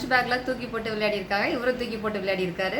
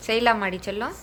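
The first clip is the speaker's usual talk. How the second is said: patient comforting; 3 semitones higher than usual. Real, not acted. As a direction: gently coax the little one to come close. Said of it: "பொறுமையா சொல்லியிருக்கேன்".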